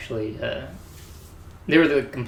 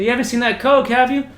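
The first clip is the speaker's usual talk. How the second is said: high, louder acted inquiry; mock innocent question; 11 semitones higher, 6 dB louder than usual. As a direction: pitch it up, retelling the question. Acts out questioning the prank victim.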